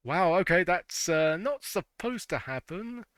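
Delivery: sudden loud surprised outburst; startled. Real, not acted. Game glitches on screen.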